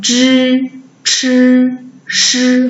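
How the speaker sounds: 之, 吃, 诗 held with retroflex i; back-i demo. Shown as a demonstration. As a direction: sound out 之, 吃, 诗 level and separate. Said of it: "后一是之".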